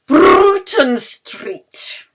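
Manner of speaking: Bruton Street said very slowly, loud and high; repeating clearly. Acted. Yeli repeats Bruton Street slowly to the confused conductor. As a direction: spell out Bruton Street syllable by syllable.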